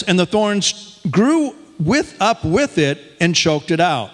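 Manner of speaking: measured public Bible reading with long pauses; scripture reading. A narrator's reading. Preacher reading the parable of the sower to congregation, measured scripture reading. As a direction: read it out to the congregation, phrase by phrase.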